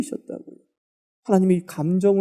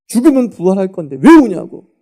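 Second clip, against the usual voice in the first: loud, raised scolding question; raised mock rebuke; scolding retort; 7 dB louder than usual. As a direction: mimic the believers who scold mourners, a touch indignant. Quoting scolding believers.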